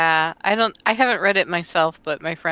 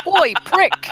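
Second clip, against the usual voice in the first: loud, high jeering call; high-pitched mock heckle; mock rude hail; 11 semitones higher, 7 dB louder than usual. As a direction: holler it as a joke. Joke version of the hunter's hail.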